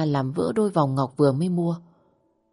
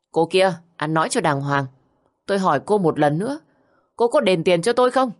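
menacing demand; 3 semitones higher than usual. Acted. Tên côn đồ hăm dọa.

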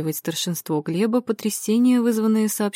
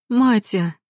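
sudden raised call of alarm; 3 semitones higher, 4 dB louder than usual. A narrator's reading. Ася calling to the fallen woman, alarmed. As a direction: call out to someone who has collapsed.

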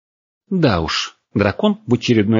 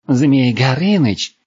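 high, drawn-out disbelief; slow, raised, mocking question; incredulous echo; 6 semitones higher, 4 dB louder, much slower than usual. A narrator's reading. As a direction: echo the title in scornful astonishment. Girl doubts dragon's boast.

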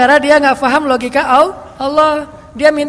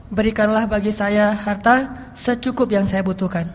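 slow prayer demo; 4 semitones lower, 3 dB quieter, slower than usual. Shown as a demonstration. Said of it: "Ini yang medium ya, yang mediumnya gini".

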